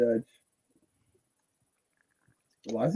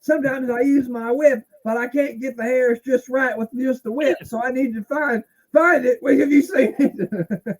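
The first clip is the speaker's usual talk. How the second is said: higher mock French-accented rambling, voiced as the wrestler; hammed-up French accent, higher; Dutch Mantel impression; 11 semitones higher, 5 dB louder than usual. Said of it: "Dutch Mantel".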